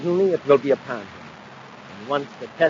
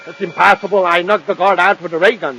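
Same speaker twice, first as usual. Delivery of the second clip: higher, louder, rattled protest; alarmed disbelief; 5 semitones higher, 9 dB louder than usual. Acted. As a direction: insist loudly in shock. Villain shocked by alarm.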